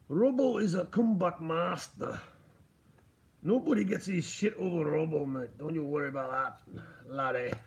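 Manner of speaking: amateur Scottish brogue; imitating a mate's Scottish accent, not very well; attempted Scottish accent. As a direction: put on a rough go at Robbo's Scottish accent. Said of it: "You know where I'm getting that accent from".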